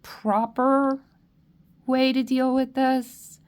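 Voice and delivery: fighting tears to get the words out; tearful. Real, not acted. Reader to a grieving group, tearful and trying to stay steady. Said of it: "you're making me cry".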